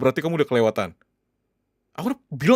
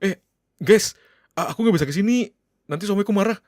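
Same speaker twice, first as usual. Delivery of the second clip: mock excuse to friends; 7 semitones higher than usual. Husband mimicking the excuse his wife should have given, mocking. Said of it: "kamu harusnya bilang kayak gitu ke mereka".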